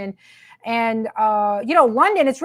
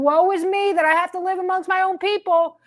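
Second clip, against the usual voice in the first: mock whining; 5 semitones higher than usual. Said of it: "when they're crying".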